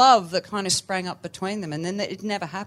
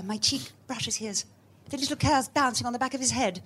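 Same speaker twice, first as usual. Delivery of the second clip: put-on breathless, high 1940s British film accent; posh 1940s British accent; 6 semitones higher than usual. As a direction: recite it like a starry-eyed film heroine in 1940s British accent. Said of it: "It's my favourite accent".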